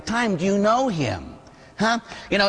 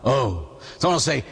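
usual speaking voice

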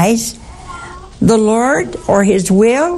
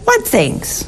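gentle Jesus; 5 semitones higher than usual. Retold or imitated.

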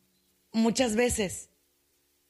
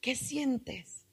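dropping to a hush as it repeats; softly repeated question; 9 dB quieter, much slower than usual. Acted. Therapist coaxing the listener inward, fading to a hush. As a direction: ask it again, quieter and quieter.

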